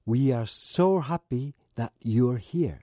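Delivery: each word slow and distinct; slow clear model phrase. Shown as a demonstration. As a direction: say it slowly for learners to copy. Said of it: "その表現は、". (ゆっくりはっきりお手本)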